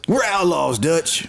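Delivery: cowboy voice. Pretend. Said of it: "your cowboy voice".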